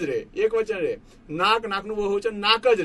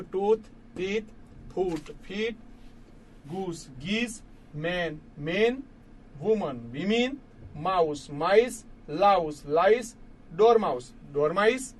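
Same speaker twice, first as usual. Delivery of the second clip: slow recap list; 3 semitones lower, 3 dB quieter, slower than usual. Shown as a demonstration. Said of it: "તો યાદ રાખજો".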